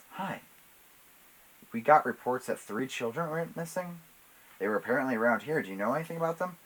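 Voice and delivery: lightly voiced officer with questions; police officer role. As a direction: politely question a shopkeeper. Read-aloud officer questioning.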